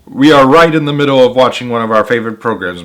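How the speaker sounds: a hint of a gruff TV-loving dad; lightly voiced, irritated at the interruption; grumpy father voice. A narrator's reading. Annoyed father brushing off the teacher, lightly voiced.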